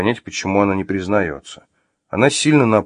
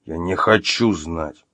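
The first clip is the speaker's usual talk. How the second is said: growled; 2 semitones lower, slower than usual. Acted. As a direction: growl it slowly through restrained anger. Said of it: "прорычал Артём".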